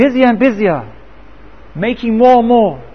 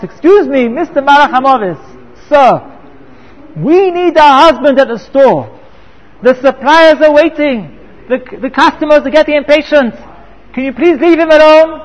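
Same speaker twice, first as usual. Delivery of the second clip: pleading wife; 4 semitones higher, 3 dB louder than usual. Pretend. Imagined wife pleading with angel.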